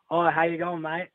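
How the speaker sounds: American attempting an Australian accent; casual Aussie greeting in a put-on accent. Shown as a demonstration. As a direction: try out an Australian accent on request. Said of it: "What's your Australian accent like?".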